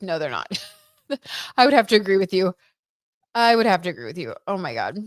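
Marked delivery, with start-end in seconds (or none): 1.1-2.5 laughing through the words, quick and louder. Real, not acted. Laughing agreement with a viewer's comment. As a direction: agree with a real laugh spilling over.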